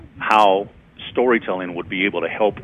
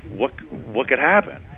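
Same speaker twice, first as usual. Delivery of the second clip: second ad voice; slower than usual. Retold or imitated. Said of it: "the second one goes".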